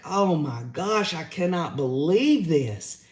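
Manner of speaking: slow, drawn-out incredulous sentence ending; imitated disbelief. Commentator imitating how she ended every sentence, slow mock disbelief. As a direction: mimic her disbelief, drawing the words out. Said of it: "almost like every sentence she gave, it was like".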